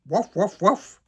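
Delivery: Santa's copied yap. A narrator's reading. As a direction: repeat the barks dutifully. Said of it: "le Père Noël répète".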